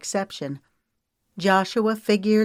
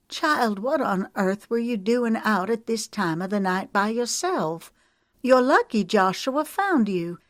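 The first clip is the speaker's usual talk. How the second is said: a hint of a fretting, scolding aunt, higher; older woman chiding a lost girl, slightly higher and anxious; lightly voiced worried older woman; 4 semitones higher than usual. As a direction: gently scold the girl you were scared for.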